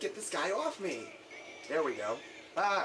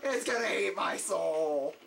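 panicked shout; slower than usual. Real, not acted. Monster grabbing him.

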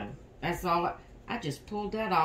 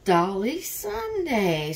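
yawning through words; slower than usual. Real, not acted. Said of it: "I'm yawning".

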